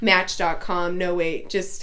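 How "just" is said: laughing. Real, not acted. Laughs at own joke.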